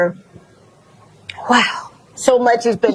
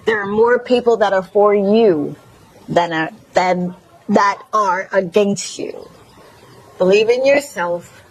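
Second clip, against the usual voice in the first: Mississippi twang. Shown as a demonstration. To listeners, host repeats it in a Mississippi twang. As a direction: lean into a Mississippi twang while laughing. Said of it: "in my Mississippi twang".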